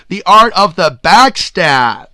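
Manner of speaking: laughing through the words, slow; chuckling while delivering the punchline. Real, not acted.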